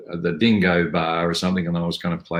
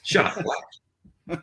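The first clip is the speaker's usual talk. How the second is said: very slow, high broad Aussie "Shut up, black"; broad Aussie line delivered in a lazy drawl; broad Aussie accent; 11 semitones higher, 4 dB quieter, much slower than usual. Shown as a demonstration. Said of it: "You didn't even have to try".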